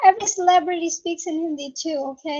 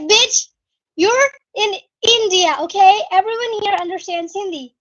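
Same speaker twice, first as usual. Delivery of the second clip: loud, emphatic exasperated retort; fed-up scolding, acted out; frustrated; 2 semitones higher, 5 dB louder than usual. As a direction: retell it with frustrated force, hitting the first words. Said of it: "so frustrated".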